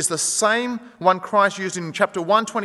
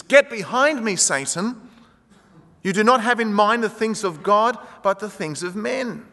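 raised, commanding rebuke; forceful rebuke; 5 semitones higher, 4 dB louder than usual. Retold or imitated. Jesus turning on Peter, forceful commanding rebuke. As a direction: drive him back with the words. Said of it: "He says".

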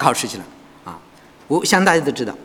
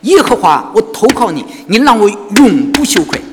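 recited verse; 2 semitones higher than usual. Shown as a demonstration. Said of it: "还是这些经文".

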